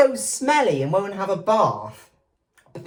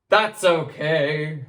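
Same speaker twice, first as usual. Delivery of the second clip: kindly; 2 semitones lower than usual. Acted. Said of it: "said the giant kindly".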